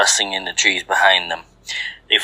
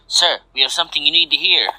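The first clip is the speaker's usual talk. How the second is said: higher, quick report to the boss; urgent subordinate; 7 semitones higher, faster than usual. A narrator's reading. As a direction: hurry out the message in a raised pitch. Second in command runs in urgently.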